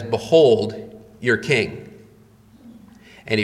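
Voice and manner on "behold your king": Pilate presenting. Retold or imitated. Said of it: "Pilate says".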